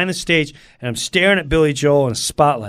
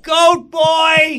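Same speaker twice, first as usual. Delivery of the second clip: high crying exclaim; 11 semitones higher, 3 dB louder than usual. Real, not acted.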